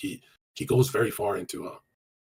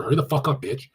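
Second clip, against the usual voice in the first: mock rude text; 3 semitones higher, 6 dB louder than usual. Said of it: "text her".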